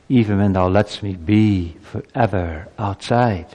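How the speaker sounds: measured, humbled prayer of confession; humble confession. Acted. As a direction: submit to God in a subdued, deliberate voice. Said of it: "To come to this humility".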